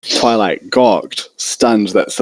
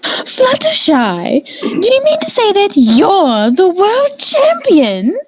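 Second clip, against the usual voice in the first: much higher, stretched astonished question; surprised Rarity; slower than usual. A narrator's reading. Rarity astonished that Fluttershy is champion, high and amazed. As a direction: gasp it out in amazement.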